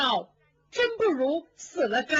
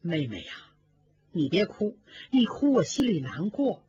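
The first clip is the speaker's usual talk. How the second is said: coaxing gently; 4 semitones lower than usual. Acted. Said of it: "宝玉百般解劝".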